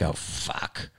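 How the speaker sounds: breathy whispered oh fuck; whispered dread. Retold or imitated. Audience member watching a bombing comic, whispering. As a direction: whisper it like you're wincing for him. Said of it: "You're like".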